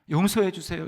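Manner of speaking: lightly voiced plea, 용서해 leaned on with a falling end; a touch of a tearful mother-in-law begging God; pleading for forgiveness. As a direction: beg 용서해 주세요 with a mild falling plea. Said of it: "울면서 회개하셨대요".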